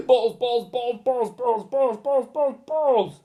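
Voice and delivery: high, excited chant; gleeful frenzy. Acted. Teacher grabbing balls, high and excited. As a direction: grab for every ball.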